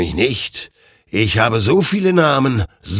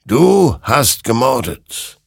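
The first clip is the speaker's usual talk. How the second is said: slow, loud, raised verdict; grave accusation; 6 semitones higher, 6 dB louder, slower than usual. A narrator's reading. Creature calls the soldier a murderer, slow and accusing. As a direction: pronounce it slowly and forcefully.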